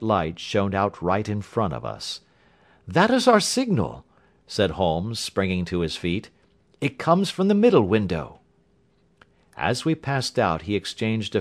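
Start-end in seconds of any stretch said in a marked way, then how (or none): 2.9-4.0 sudden high, louder alert; excited. A narrator's reading. Holmes springs up, sees signal. 6.8-8.4 urgent. A narrator's reading. Holmes urgent at the signal.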